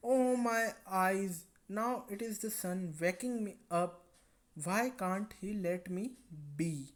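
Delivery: drowsy, very slow complaint; sleepy girl. Acted. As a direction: groan it out, half asleep. Sleepy girl woken by sun.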